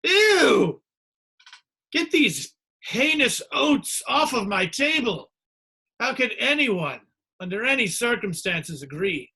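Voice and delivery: high, loud, slow haughty disgust; outraged cereal snob. Pretend. Diner offered cereal in a square bowl, haughty outraged disgust. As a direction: play an appalled diner rejecting oats. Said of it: "It'd be like if I gave you".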